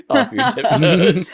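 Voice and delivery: laughing through the words; cracking up mid-sentence. Real, not acted. Laughing at friend's wobble.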